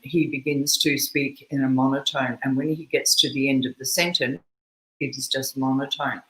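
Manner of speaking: low, level monotone reading. Shown as a demonstration. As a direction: drone it evenly to the sentence's end. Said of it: "he actually speaks in a monotone".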